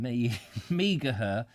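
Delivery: Meager slow and hesitant, stumbling in, with a laugh; unsure pronunciation. Real, not acted. Reading an ancestor's name, unsure how to say it. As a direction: feel your way into "Meager", slowly, with a laugh. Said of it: "how the hell do you pronounce that?".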